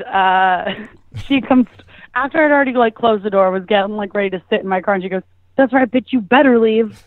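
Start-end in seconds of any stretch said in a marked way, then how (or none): 5.6-7.0 mock taunt. Ex-girlfriend taunting her as she leaves, mock hostile. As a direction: imitate an ex seeing off a rival.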